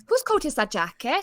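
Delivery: Welsh accent catchphrase. Shown as a demonstration. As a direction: put on a lilting Welsh accent. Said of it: "get into the Welsh accent".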